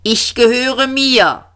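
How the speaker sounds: high, slow robot squeak; high, drawn-out metallic robot voice; squeaky metallic voice. A narrator's reading. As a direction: pipe it up slowly, tinny and robotic. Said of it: "piepsige Stimme metallisch aus dem Krater".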